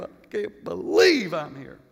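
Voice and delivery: hammed-up crying disbelief; mock tearful regret. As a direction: lament it like a sinner bemoaning the loss. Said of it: "you're crying".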